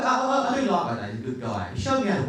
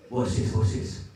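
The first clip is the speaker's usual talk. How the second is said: whisper; 3 semitones lower, slower than usual. Retold or imitated. Dad's whisper before shouting.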